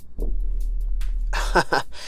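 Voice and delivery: breathy evil laugh. A narrator's reading. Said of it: "The old woman laughed and said".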